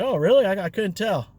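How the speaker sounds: mock innocent surprise; playing dumb. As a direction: feign you noticed nothing. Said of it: "I was acting dumb".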